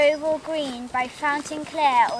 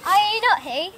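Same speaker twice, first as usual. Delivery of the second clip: asked out loud with a rising challenge; louder; 3 semitones higher, 5 dB louder than usual. Acted. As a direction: press the question, louder. Fairy questions Puck, twice.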